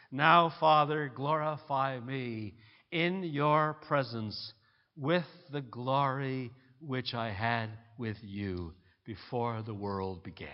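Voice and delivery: slow, hushed prayer; reverent prayer. Real, not acted. Quotes Jesus' prayer.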